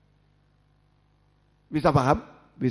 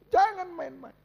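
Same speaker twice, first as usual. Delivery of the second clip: loud warning. Real, not acted. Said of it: "saya mau berteriak".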